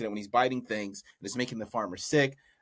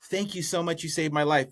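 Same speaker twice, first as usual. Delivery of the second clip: grateful thanks, pitched up high; grateful farmer; 6 semitones higher than usual. Acted. Farmer thanks crane for saving his life, gratefully high. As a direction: gush thanks in a higher voice.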